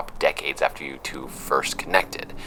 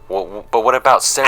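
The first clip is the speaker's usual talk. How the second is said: flustered protest; 5 semitones higher, 7 dB louder, faster than usual. Acted. Interviewer being thrown out.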